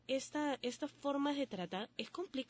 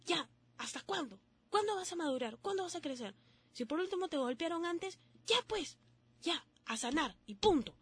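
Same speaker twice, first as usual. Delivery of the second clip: higher, stern self-scolding voice; scolding yourself; 5 semitones higher than usual. Acted. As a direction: tell yourself off like a strict elder. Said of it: "que agarres y te digas".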